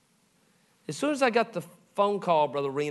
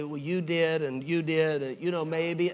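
mock grudging apology; slower than usual. Shown as a demonstration. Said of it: "you don't say".

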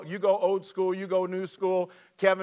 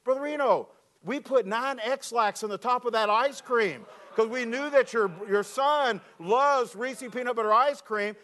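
put-on teen confessing; 5 semitones higher than usual. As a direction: let the boy spill the prank reluctantly. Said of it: "He goes".

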